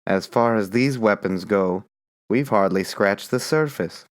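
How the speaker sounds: mumbling agreement in the night; sleepy comrade. Acted. Lincoln, half awake.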